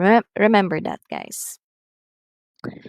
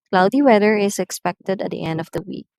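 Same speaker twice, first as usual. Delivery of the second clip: brisk statement falling on "week"; falling intonation; faster than usual. Shown as a demonstration. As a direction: model sentence, voice drops at "week". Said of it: "usually using falling intonation".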